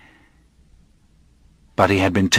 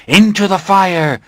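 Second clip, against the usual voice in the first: fanatical shout; 10 semitones higher, 5 dB louder than usual. Acted. Hooded crowd chants for burning.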